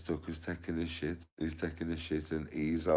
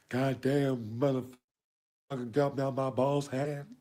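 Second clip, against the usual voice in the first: much higher put-on voice; hammed-up high-pitched cursing; high-pitched film-style voice; 11 semitones higher, 3 dB louder than usual. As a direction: curse in a squeaky-high put-on voice. Acting out the high voice.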